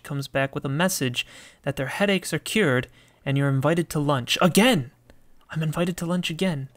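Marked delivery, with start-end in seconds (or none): 4.4-6.7 higher, exclaimed "Again!", then quicker; surprised reaction. Real, not acted. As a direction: blurt it out in mild surprise. Reacts to a repeat invitation.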